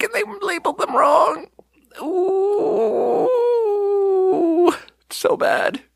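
high, tearful laughter fading to whisper; laughing. Real, not acted. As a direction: laugh helplessly through the punchline. Laughing at climax of story.

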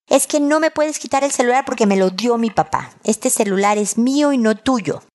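a hint of a child arguing back; protesting son. Son objecting to his mother taking the phone, protesting.

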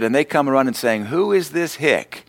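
joking jibe. Retold or imitated. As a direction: tease jokingly, stretching out the punch line. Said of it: "I meant it jokingly".

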